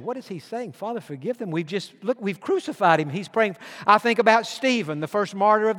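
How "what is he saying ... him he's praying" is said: hushed puzzled soldiers. Retold or imitated. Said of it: "Roman soldiers ... said".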